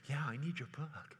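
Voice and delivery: mock anxious, drawn-out pleading; mild mock panic; freaked-out buyer. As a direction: play the scared follower begging for tapes. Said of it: "you're freaked out and like".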